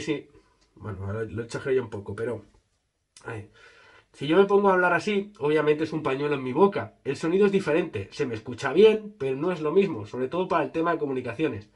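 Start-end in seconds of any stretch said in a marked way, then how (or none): 3.2-11.7 muffled by fabric covering; speaking behind face cloth; through cloth over mouth. Real, not acted. Seen 1: Holds black cloth over mouth and nose throughout the speech.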